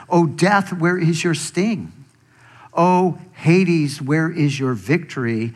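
mock death lightly, as a challenge; half-hearted taunt thrown at death. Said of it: "he almost taunts death".

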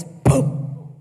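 quick voiceless sound effect of a hand flying out; imitated thump. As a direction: puff out a boom. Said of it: "go out like this".

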